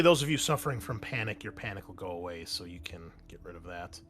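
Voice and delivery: usual speaking voice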